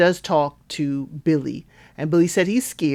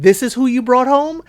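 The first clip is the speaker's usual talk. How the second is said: mock judgy; 6 semitones higher, 5 dB louder than usual. Voicing judgy mom and sister.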